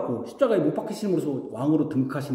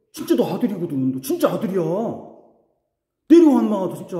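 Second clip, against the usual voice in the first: satan's taunt; faster than usual. Retold or imitated. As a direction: needle him until he snaps. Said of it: "사단이 지금 노리는 게 그거예요". (비웃으며 약올리는 말투)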